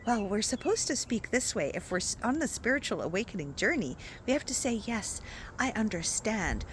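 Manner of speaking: softly imitating the peaceful spiritual voice; a hint of pious calm, mocking it; mock gentle spiritual tone. Mocking how spiritual people are supposed to talk, softly. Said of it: "Like, there's this tone".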